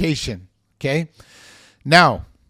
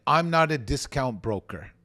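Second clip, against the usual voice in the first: scripted arrogant reply. Shown as a demonstration. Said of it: "We are sometimes taught to say".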